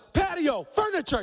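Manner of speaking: nervous blurt. Retold or imitated. Pastor intimidated by Heath, squeaking out an order. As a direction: blurt it out, scared of the big guy.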